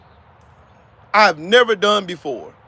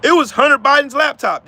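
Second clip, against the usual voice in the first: higher, louder sarcastic parody; mocking quote; 5 semitones higher, 4 dB louder than usual. Ridiculing the Hunter Biden laptop excuse, sarcastically. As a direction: toss out the excuse with scorn.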